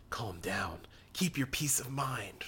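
hushed whisper, calming himself; whispered inner thoughts. Acted. The priest whispers to himself amid the frogs. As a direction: whisper it to yourself to stay calm.

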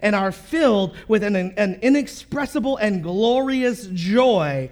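measured reading of scripture to the church. Acted. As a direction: read the verses steadily to the congregation. Pastor reads scripture aloud.

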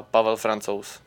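Pavel Francouz the Czech way, FRAHN-tsohs; native name said. Shown as a demonstration. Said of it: "so my name is".

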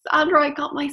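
a lightly voiced excited client; delighted client. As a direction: share the news like a thrilled client. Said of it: "she was on top of the world".

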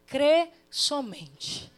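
very slow, drawn out, steady; Jesus steadying Jairo before he sinks; calm reassurance. Acted. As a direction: lay each word down slowly.

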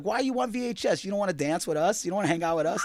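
teasing ladies. Retold or imitated. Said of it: "And they'd be like".

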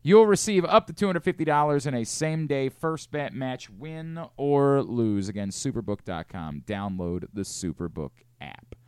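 brisk sponsor read. Acted. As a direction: read it like a sportsbook ad. Reads sponsor ad.

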